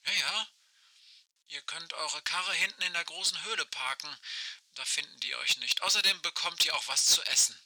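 like a far-off voice over a walkie-talkie; old rotary phone. Acted. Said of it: "Aisches Stimme knarzt durch das Funkgerät".

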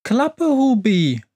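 high, drawn-out cross witch voice; snapping. A narrator's reading. Witch silencing her stove Hubi, snapping. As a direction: snap at your companion to shut up. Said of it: "schnauzt da die Hexe".

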